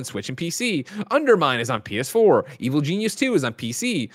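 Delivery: rhythmic list, each title lifted then dropping off; games-news roll call; release-list read. Real, not acted. Host reading out new game releases, announcer list read.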